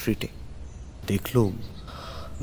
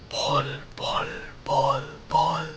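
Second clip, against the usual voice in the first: slow eerie whisper; 3 semitones higher, 5 dB quieter, much slower than usual. A narrator's reading. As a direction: hush it like a secret. Narrator whispers the gesture. (ফিসফিসে ভয়ের সুর)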